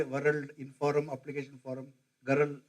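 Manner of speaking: emphasized r in "World", "Inform", "Application form"; Karnataka English accent. Shown as a demonstration. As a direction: sound out every r, "World" as "waruld", "Garal" for girl. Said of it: "you go to Karnataka, they say".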